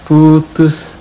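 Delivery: high, loud incredulous "putus?"; shocked question. Retold or imitated. Shocked at the breakup news. (kaget tak percaya, nada tinggi)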